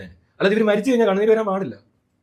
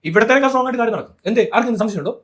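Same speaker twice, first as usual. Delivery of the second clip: normal talking voice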